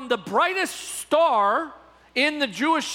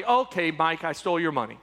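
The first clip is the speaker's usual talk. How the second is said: lower, deflated pretend admission; mock grudging confession; 6 semitones lower than usual. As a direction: give in, dropping the pitch. The speaker gives in and confesses.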